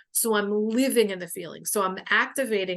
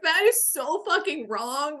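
laughing; 7 semitones higher than usual. Retold or imitated. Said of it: "And then I'm like".

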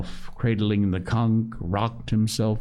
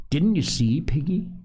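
higher-pitched, urgent question; feverish excitement; 7 semitones higher than usual. A narrator's reading. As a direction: press a friend with restrained fever. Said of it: "feverish excitement in his voice".

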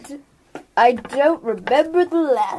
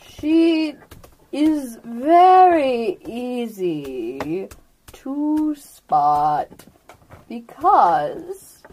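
a lightly voiced ancient turtle, slow and drawn out; slow old turtle; slower than usual. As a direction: speak as an unhurried old turtle, letting each word sink in.

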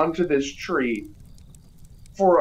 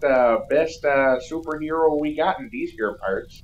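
fanboy cowboy cop. Retold or imitated. Cop boasting about Turbo Man to the lady, hokey cowboy voice. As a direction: brag like a hick sheriff fanboy. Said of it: "so he was like".

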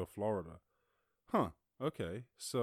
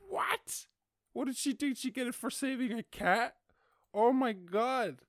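much higher, louder incredulous squeal; shocked disbelief; 13 semitones higher, 6 dB louder than usual. Real, not acted. Hearing a fourteen-year-old earned a master's, high shocked squeal. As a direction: shriek in disbelief at the news.

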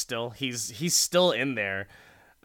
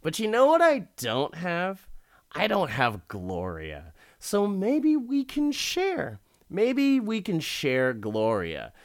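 creepy rich guy; 7 semitones higher than usual. Retold or imitated. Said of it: "And he's like".

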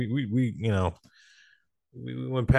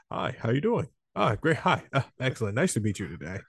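polite code-switched voice; 3 semitones higher, faster than usual. Retold or imitated. Code switching from street talk to polite small talk. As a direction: switch into a neat office-friendly voice.

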